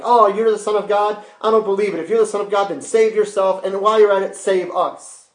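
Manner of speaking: loud, high-pitched acted taunt; acted scoffing, pitched well up; arrogant mocking. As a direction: sneer a challenge as the arrogant criminal. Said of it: "That's pretty arrogant, pretty proudful".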